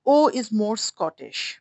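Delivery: O stretched out very slowly as a Scottish vowel; very slow demo. Shown as a demonstration. Teacher modelling the Scottish O, very slowly. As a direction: draw out the O for the class. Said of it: "अच्छा ये ओ नहीं होता".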